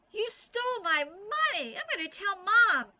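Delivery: high, loud outraged shout; angry accusation. A narrator's reading. Nancy accuses Bean of stealing, shouting high and loud. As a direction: yell the threat to tell on her. Sister accuses, threatens to tell.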